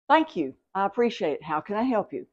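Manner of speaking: calm, even reply to a drama queen. Shown as a demonstration. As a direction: say it as calm as you can be. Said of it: "Just as calm as you can be".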